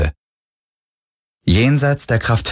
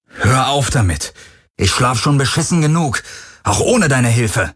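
higher, exasperated yell; angry shout; 5 semitones higher than usual. Acted. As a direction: snap back in fury. Wütend gegen die Stimme. (genervt gebrüllt)

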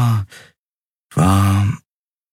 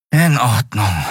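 a touch higher, mildly resigned; resigned sigh; 5 semitones higher than usual. A narrator's reading. Miko concedes the game to Nelen, resigned. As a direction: give in with a sigh. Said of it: "seufzte er resigniert".

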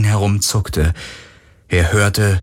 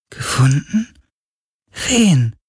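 surprised spirit; 8 semitones higher, slower than usual. Acted.

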